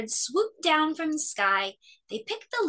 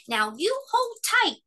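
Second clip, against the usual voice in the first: stern; 11 semitones higher than usual. A narrator's reading. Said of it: "said Fletcher sternly".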